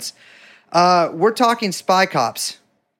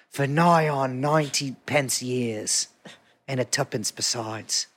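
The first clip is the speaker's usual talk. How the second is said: put-on goofy British accent; 3 semitones lower, 3 dB quieter than usual. Host narrating an Old Bailey skit as a bewigged judge, goofy British accent. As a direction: play a mock-solemn old British judge, taking your time. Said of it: "Have you done your goofy British accent yet?".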